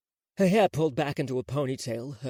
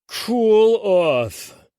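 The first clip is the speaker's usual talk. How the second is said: louder order; 7 semitones higher, 10 dB louder than usual. Acted. Chilean repeats order, harder.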